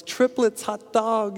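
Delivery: high, thrilled cry; excited father. Retold or imitated. New father cheering triplets, high and thrilled. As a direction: shout it out like a proud new dad. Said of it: "He goes".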